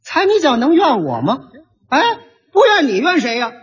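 mock quarrel through a cold smile; cold sneer. Shown as a demonstration. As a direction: blame them with a sneering smile. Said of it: "就用着这个冷笑了".

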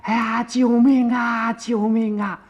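高声拖长的呼救; 扯开嗓子喊救命，音调又高又响; 大喊救命. A narrator's reading. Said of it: "嘴里头还大喊". (惊慌地大声呼救)

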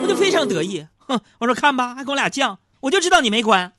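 a smug husband's victory lap. Retold or imitated. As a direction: crow over the wife like a winner.

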